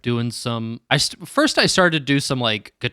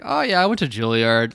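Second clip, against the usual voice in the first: imitated nonchalance. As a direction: toss it off as no big deal. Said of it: "so nonchalant".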